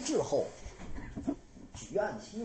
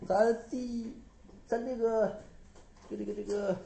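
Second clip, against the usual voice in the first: dream brother. Acted. Dead brother pleads in dream.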